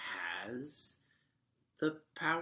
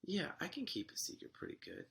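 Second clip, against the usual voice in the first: mimicking young Shuri; 10 semitones higher, faster than usual. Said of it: "And she's like".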